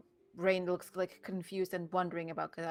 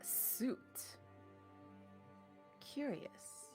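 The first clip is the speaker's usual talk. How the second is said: whispering; 6 semitones higher, 15 dB quieter, much slower than usual. Acted. Puzzled whisper.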